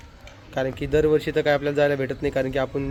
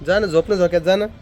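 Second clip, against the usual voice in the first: louder, higher coaxing; 3 semitones higher, 6 dB louder than usual. Real, not acted. Mother loudly coaxes baby into the swing. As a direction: push her to go sleep.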